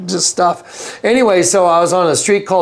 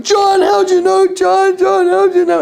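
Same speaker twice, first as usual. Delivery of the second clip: much higher, pleading, on the verge of tears; imitating tearful plea. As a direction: retell the friend's tearful disbelief. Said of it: "And he's crying".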